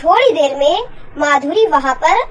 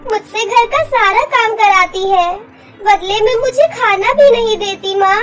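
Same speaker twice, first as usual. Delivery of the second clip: put-on high, whiny little girl telling tales; childlike complaint; 5 semitones higher than usual. Daughter complains to mother about stepmother, whiny. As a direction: pour out hurts like a small child.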